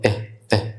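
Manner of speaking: "اه" close to a short E; short I sound. Shown as a demonstration. Teacher showing the sound of I, short phonics sound close to E. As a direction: say "اه" like the start of "in". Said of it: "الآي صوتها قريب من الإي شوية".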